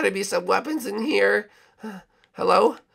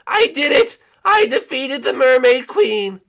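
triumphant; 5 semitones higher, 6 dB louder than usual. Acted. Banana Guard after victory, loud triumphant. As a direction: savour the win.

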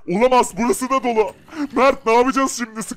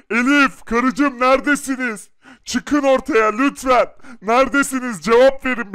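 shouting. Acted. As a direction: call them out, pleading. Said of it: "Adam çok bağırıyor".

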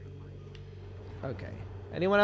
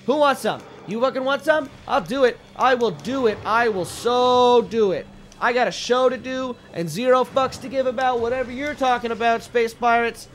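higher, louder cocky taunts; trash talk; 4 semitones higher, 3 dB louder than usual. Real, not acted. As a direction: taunt the pirates. Trash-talking enemies.

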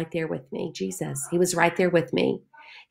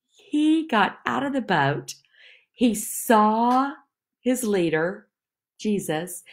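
whisper; 3 semitones higher than usual. Acted. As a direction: whisper it in awe, higher. Awed retelling of Peter's step.

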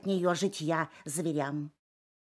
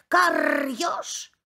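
higher, louder crow cry; crow shouting; 8 semitones higher, 5 dB louder than usual. Acted. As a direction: yell it at the fox. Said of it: "кричит ему ворона".

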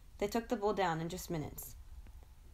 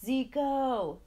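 higher, louder, sharper angry call; angrier call; 7 semitones higher, 6 dB louder than usual. Acted. Impatient father calling his son a second time, angry shout. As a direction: call him again, now really cross. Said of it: "this time angrier".

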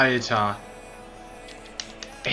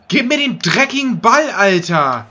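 berserk rage. Real, not acted. Raging at football game.

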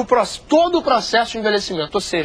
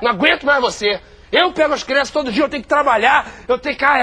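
angry spouse; 5 semitones higher than usual. Acted. Arguing with spouse.

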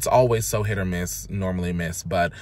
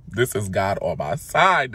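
delighted. Retold or imitated. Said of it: "I was like".

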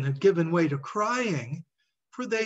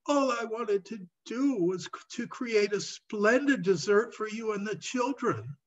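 anxious pleading; 5 semitones higher than usual. Acted. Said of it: "he stuttered".

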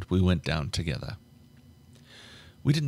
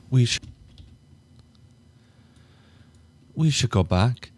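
higher, louder, shaken plea to leave; higher and louder, anxious; nervous plea; 4 semitones higher, 4 dB louder than usual. Acted. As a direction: urge him to turn back, rattled. She hesitantly asks to leave.

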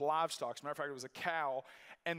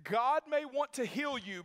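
stern; 8 semitones higher, 5 dB louder than usual. Retold or imitated. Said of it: "It's real stern".

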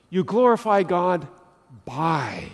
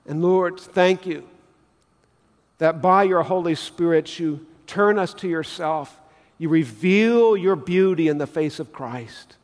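earnest, measured pastor's prayer; closing prayer. Acted. Pastor praying over the congregation, reverent and earnest.

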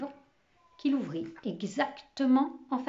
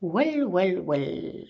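musing, falling much lower on the last; gentle; 4 semitones lower, much slower than usual. A narrator's reading. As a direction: let it settle gently downward. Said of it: "tout doucement". (doucement, en descendant)

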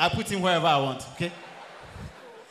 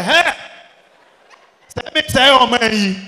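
1 mock shout; 4 semitones higher, 12 dB louder, slower than usual. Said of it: "he shouted".

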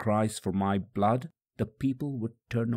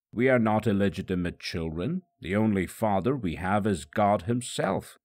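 clamoring. Acted. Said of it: "Again they clamored".

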